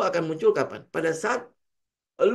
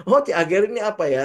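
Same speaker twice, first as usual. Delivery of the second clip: mock puzzled self; 3 semitones higher, 4 dB louder, much faster than usual. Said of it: "karena membaca punya si Ray Dalio".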